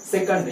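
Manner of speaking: सेकंड as "se-kund", short uh in the second syllable; correct pronunciation. Shown as a demonstration. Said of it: "ये right है".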